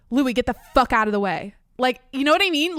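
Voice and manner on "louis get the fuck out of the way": imitating an exasperated, louder outburst; retold angry order. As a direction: re-enact telling the dog off, with force on the swear word. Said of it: "angst and anger, I said".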